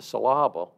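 "syllable" as suh-LAH-bul; wrong-syllable stress. Shown as a demonstration. Speaker cites the mispronunciation to listeners, "syllable" stressed on LAH. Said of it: "right or wrong way to pronounce".

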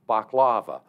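"baklava" as bahk-LAH-vuh; wrong-syllable stress. Shown as a demonstration. Speaker cites the mispronunciation to listeners, "baklava" stressed on LAH. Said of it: "right or wrong way to pronounce".

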